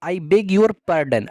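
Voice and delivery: very slow, careful teacher read; slow model phrase. Shown as a demonstration. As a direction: spell it out slowly for the class. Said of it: "आप इस तरीके से भी कह सकते हैं". (धीमा, साफ़ उच्चारण)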